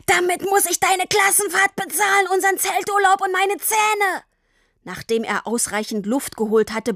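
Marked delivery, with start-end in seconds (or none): 0.1-4.2 high, furious yell across the street; shouting. A narrator's reading. Papa yells at Tini across the whole street, furious. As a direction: let it all out at her. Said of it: "Er schrie über die ganze Straße".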